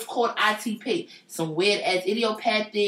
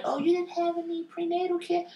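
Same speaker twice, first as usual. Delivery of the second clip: snotty nurse; 8 semitones higher, 5 dB quieter than usual. Retold or imitated. Mocking the rude nurse.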